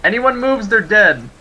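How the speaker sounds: muffled mask yell; through a gas mask. Acted. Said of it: "I'm just gonna yell one more time".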